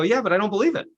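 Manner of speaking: high, doubting protest; doubtful audience member. Retold or imitated. Coach retells an audience member's high doubtful protest. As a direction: push back as if unconvinced. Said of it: "And they go".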